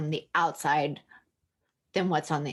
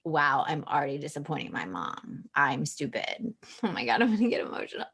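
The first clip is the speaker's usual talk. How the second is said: put-on inner child; 3 semitones lower than usual. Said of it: "being like".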